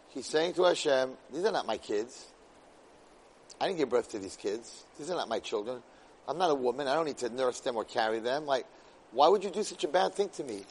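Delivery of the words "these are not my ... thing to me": lower, much softer weary complaint; weary plea. Acted. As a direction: give up quietly, drained. Moshe's plea voiced low.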